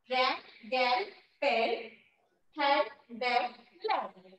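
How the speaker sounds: रैन, गैल, पेन, हैंड, बैग, लैंड as isolated words, pauses between; listen-and-repeat drill. Shown as a demonstration. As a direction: model each word from रैन to लैंड separately for repeating. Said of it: "इसे आप लोगों को बार बार repeat करना है". (रैन से लैंड तक हर शब्द अलग-अलग, रुक कर बोलें)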